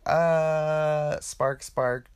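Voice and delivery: a blank, overloaded "uh" trailing into mumbling; dazed waiter. Retold or imitated. Overwhelmed waiter facing the big table, mildly dazed and blank. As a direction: play the waiter short-circuiting. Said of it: "the waiter's like".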